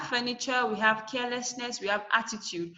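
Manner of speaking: furniture, carelessness, attitude, each stressed on the first syllable; FUR-niture, CARE-lessness, AT-titude as examples. Shown as a demonstration. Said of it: "We stress them at the first".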